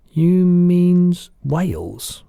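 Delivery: put-on a curious little girl protesting; Sophie's voice.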